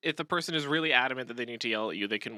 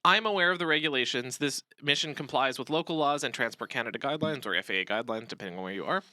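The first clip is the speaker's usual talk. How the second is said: calm, reassuring. Shown as a demonstration. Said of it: "A better response could be something like".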